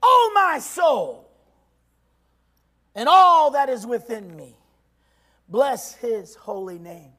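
loud, slow preaching shout; shouted declaration. Acted. Preacher telling the flesh no, shouted then hushed. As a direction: cry it out to the Lord, then drop to a hush. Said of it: "you crucify your flesh and say".

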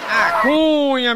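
long stretched high call of the name; drawn-out call. Acted. Comedian opening the next joke, stretched and high.

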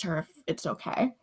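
soft unvoiced whisper; a quiet whispered reassurance; whispered reply. Real, not acted. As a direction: whisper it as if keeping it low. Player answers Martin in a hush.

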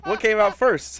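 high, loud, drawn-out what; eager rising question; excited. Real, not acted. Excited question about console order.

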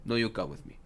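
lightly put-on Russian; Russian accent. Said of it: "So he's Russian".

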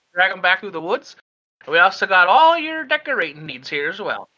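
helpful store lady pointing out goods; folksy shopkeeper. Acted. Old shopkeeper shows Shock the shelves, chatty and folksy. Shopkeeper lists her wares.

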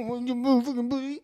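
high laughing outburst. Real, not acted. Reacting to friend's joke.

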